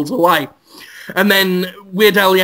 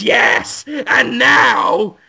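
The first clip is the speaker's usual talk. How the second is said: villain's triumphant shout; 3 dB louder, much slower than usual. Acted. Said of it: "Willem Dafoe's voice just says".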